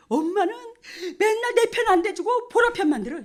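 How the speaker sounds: loud, high-pitched mock grievance; complaining son. Son protesting mother always sides with Bora, loud acted complaint. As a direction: play an aggrieved son, pitched well up.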